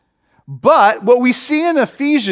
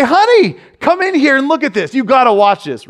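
high, loud call into the next room; calling out to wife; 5 semitones higher, 3 dB louder than usual. Retold or imitated. Pastor calls his wife to see the replay, eager shout. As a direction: summon her in, eager. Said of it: "what I do next is I say".

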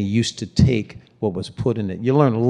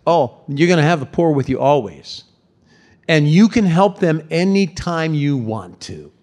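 passive-aggressive jab; 3 semitones higher than usual. Retold or imitated. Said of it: "passive-aggressive".

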